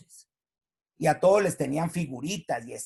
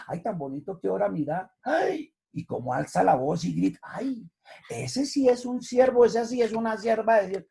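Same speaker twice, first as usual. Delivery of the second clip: mild mock admiration; 2 semitones higher than usual. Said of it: "la gente que está al lado dice".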